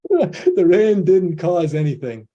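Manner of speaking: slow, loud and high, every word hammered home; emphatic declaration. Real, not acted. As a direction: lands the point for the Zoom audience with a slow, loud emphatic punch. Punchline after rain example.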